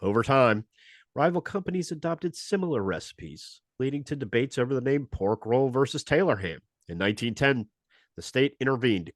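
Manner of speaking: brisk announcer read of a history segment; radio show host. Acted. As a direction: present it like a radio history spot. Hosts the Stupid History Minute.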